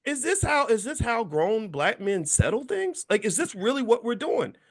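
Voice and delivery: high, loud disbelief that fades to a slow question; incredulous outburst. Retold or imitated. Retorting to an old man threatening him, incredulous outburst. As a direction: shout it in amazement, then settle. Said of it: "I'm like".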